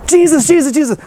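a mild high mock call for attention; calling out eagerly. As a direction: wave your hand and call his name. Reporters calling out at press conference.

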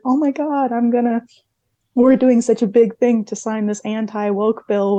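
hammed-up gushing politician; mocking imitation.

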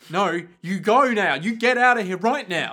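loud, pushy Cockney guard; hammed-up Cockney bossiness. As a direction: order them off in mock Cockney. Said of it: "I don't know why he's got Cockney voice".

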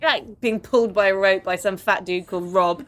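talking through laughter; laughing through words. Real, not acted. Host describing the show, talking through laughter. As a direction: laugh while telling it.

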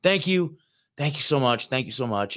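a hushed "oh gosh" rising into thank-yous; grateful. Retold or imitated. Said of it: "a state of gratitude".

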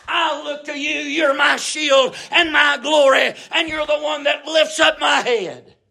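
preacher at full force; fervent preaching prayer. Acted. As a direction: cry it out with rising fervor.

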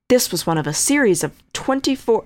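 lightly dramatic true crime read; dramatic narration. Shown as a demonstration. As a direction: read it like a movie trailer. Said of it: "We're just gonna read it normally".

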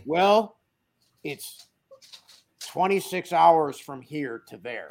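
slow, drawn-out Roy voice; lightly voiced Roy reading the map; Roy impression. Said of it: "Killer Roy impression".

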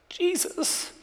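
breathed, voiceless whisper; whispered name. Acted. Pastor whispering the name of Jesus at the climax.

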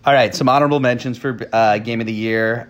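a quick read of his pick; ghostly voice. Acted. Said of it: "Jacques' ghostly voice".

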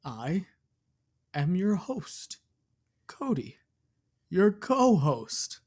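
slow, high spooky ghost host; slow theatrical villain menace. Pretend. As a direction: drag the words out eerily. Haunted Mansion host parody.

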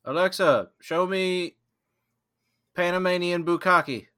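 loud, high command to the smart speaker; calling out to Alexa. Pretend. Friend mock-commanding Alexa, loud and high. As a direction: bark it at the device across the room.

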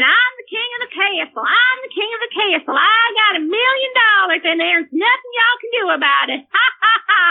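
imitating a gloating teenager, ending in mock laughter; gloating boast. Son's gloating boast, acted by parent.

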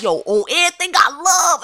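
loud, high-pitched hyped-up swearing; mock tough threat. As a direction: imitate a man hyped for a fight. Acting out the man's swaggering threat.

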